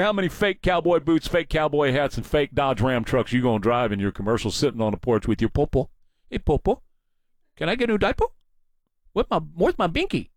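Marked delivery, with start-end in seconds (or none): 6.3-10.3 lightly put-on whiny toddler voice, a bit higher; mock him as a baby asking for his diaper. Mocking the candidate as a whiny baby, high put-on toddler voice.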